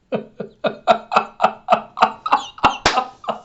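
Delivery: high, breath-only string of chuckles; wheezing laughter. Real, not acted. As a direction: laugh helplessly in short, even pulses. Reacting to the barking scene.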